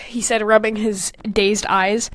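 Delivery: whispered narration. Real, not acted. Reading her story aloud, whispered. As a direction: drop to a whisper for this part.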